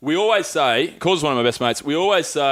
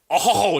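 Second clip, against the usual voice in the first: drawn-out, higher, exaggerated "oh"; mock groaned "oh"; 6 semitones higher than usual. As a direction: make a big joke of the sound. Mock-struggling to say a word.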